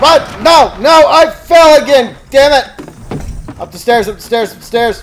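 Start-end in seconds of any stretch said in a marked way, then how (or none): 0.0-3.6 loud, high cry of dismay; exasperated shout; dismayed yell. Real, not acted. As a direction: wail at the screen. Falling in game.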